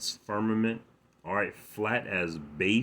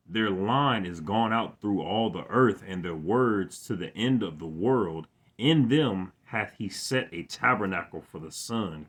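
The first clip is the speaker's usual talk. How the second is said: emphatic, measured psalm recitation; scripture reading; 3 dB louder than usual. Real, not acted. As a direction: proclaim the psalm, lifting the key words. Reads psalm aloud.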